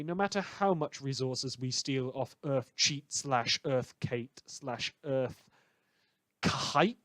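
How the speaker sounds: tries Cheat, then Kate, then Kite, slowing on Kate; trying pronunciations. Shown as a demonstration. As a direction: weigh each spelling aloud, unsure, slowly. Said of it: "I've seen a lot of pronunciations".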